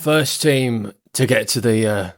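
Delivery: slow gravelly character voice. Acted. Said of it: "he's got such a gravelly voice as well".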